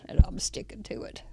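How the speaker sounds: whispered aside; a playful whisper to the camera; conspiratorial hushed aside. Real, not acted. Whispered joke about her card.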